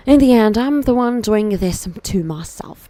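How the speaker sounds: lightly put-on British accent. Streamer voicing frustrated Hugo, pretend British accent. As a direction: try a British accent for the character. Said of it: "I'm gonna just pretend it's British".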